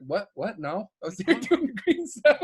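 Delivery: high-pitched fake denial, breaking into a laugh; badly faked bafflement; feigned innocence. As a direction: play dumb when accused. Feigns innocence when accused of prank.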